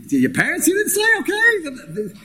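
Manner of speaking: a wife calmly asking her husband; reasonable wife. Retold or imitated. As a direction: gently coax the husband, slowing on the last words. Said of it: "She could have said".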